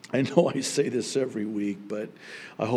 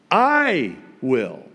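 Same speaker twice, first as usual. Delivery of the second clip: resounding "I", settled "will"; stress on I; 4 dB louder than usual. Shown as a demonstration. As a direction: hit "I" hard, then drop onto "will". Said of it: "Now, the emphasis is on".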